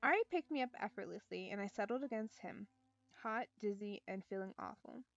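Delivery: calm storytelling read; story narration. Acted. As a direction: read the novel aloud evenly. Reads visual novel aloud.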